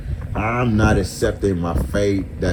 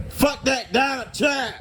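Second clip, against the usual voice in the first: sudden high yell; shout. Real, not acted. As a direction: yell it out in anger. Ranting, shouting at Trump.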